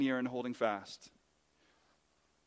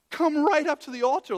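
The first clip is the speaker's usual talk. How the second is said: high, shouted pulpit invitation; loud urgent call; 12 semitones higher, 10 dB louder than usual. Acted. Preacher calling the congregation up to the altar, urgent. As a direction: call them forward at full voice.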